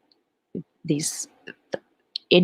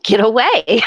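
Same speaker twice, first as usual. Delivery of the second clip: firm command; 6 semitones higher, 6 dB louder than usual. Retold or imitated. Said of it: "he just was firm and said".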